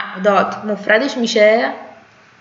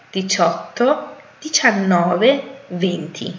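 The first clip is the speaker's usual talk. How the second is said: quicker run through the numbers; faster reading. Shown as a demonstration. Teacher rereading the numbers faster for practice. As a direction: read the list briskly. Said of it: "سریعتر از روش میخونم".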